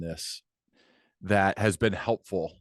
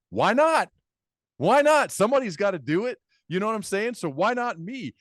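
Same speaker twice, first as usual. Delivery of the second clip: much higher and louder, bursting with enthusiasm; fired-up excitement; 10 semitones higher, 4 dB louder than usual. Real, not acted. Host talking himself into his festival dream, excited and much higher. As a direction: talk yourself into the crazy idea, pitch jumping up.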